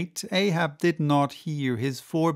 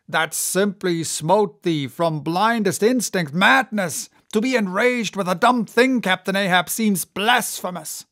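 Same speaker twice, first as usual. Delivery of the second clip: raised, pleading first mate; protesting mate; 4 semitones higher, 5 dB louder than usual. Acted. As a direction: warn the captain with alarm. Starbuck protests.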